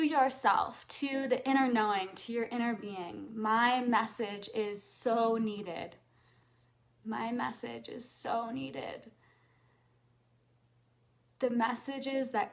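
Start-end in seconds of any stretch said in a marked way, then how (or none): 3.3-6.0 slow, sincere affirmation. Shown as a demonstration. Coach leads audience in affirmation, slow and sincere. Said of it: "And say out loud". 7.0-9.1 softer, slow repeat of the affirmation. Shown as a demonstration. Coach repeats affirmation to audience, softly and slowly. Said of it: "And say out loud".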